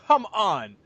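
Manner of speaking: really shooting up very high; exasperated mock disbelief; incredulous high really; disbelieving really. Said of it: "It's like".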